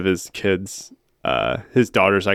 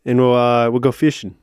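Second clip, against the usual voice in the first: wobbly British accent attempt; loose, half-held British accent; British accent, slipping. Shown as a demonstration. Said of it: "what happened to me. I just switched it over".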